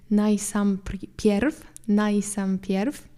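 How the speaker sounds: very slow, stretched "najsampierw"; slow, drawn out. Shown as a demonstration. Teacher stretches an old-fashioned word for students, slowly. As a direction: draw "najsampierw" out syllable by syllable. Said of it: "nieużywane już za bardzo".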